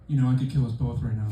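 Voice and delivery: low, soft menacing calm; quietly menacing ex; creepy calm girlfriend. Retold or imitated. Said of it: "she turns to you and goes".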